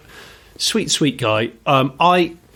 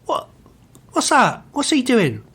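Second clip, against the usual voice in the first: much higher, exasperated imitation of the instructor; ranting instructor. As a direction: rant at the weaving driver, half outraged. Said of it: "he'd go".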